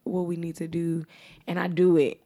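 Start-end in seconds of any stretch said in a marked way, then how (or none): 0.0-1.0 softer, composed explanation; really calm. Retold or imitated. Caller taking over with customer service, really calm. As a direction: retell it calmly and quietly. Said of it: "I'm, like, really calm".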